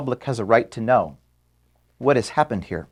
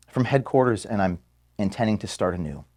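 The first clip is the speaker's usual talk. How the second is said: choked up; 4 semitones lower, 5 dB quieter than usual. Real, not acted. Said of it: "I'm sorry, I'm getting emotional".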